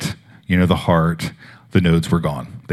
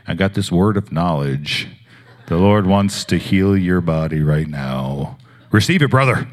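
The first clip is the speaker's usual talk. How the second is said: mock preachy pronouncement. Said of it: "I didn't do any of that stuff".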